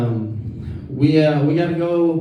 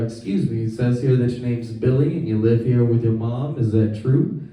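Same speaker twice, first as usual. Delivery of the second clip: lower, polite salesman; 5 semitones lower than usual. Retold or imitated. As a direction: play a smooth door-to-door salesman. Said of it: "and he says".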